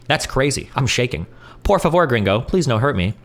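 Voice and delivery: mock-scared cheerful troll voice; a hint of a cheery troll; cheerful doxer voice. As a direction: read the taunt with sing-song glee. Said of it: "the cheerful voice".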